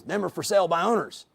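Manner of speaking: a hint of a seasoned old-timer agent; lightly voiced old agent explaining to the new kid. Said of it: "typical old-timer agent".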